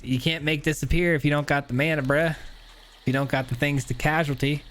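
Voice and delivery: light southern US twang; southern accent. Acted. Player talking trash over a card game, light southern accent. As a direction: slip into a casual southern accent. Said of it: "I just did a southern accent".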